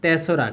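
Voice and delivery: তেসরা said as one word, not তিন রা; correct pronunciation. Shown as a demonstration. Teacher repeats the correct reading for the class, clearly. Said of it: "এটাকে আমরা উচ্চারণ করব কি?".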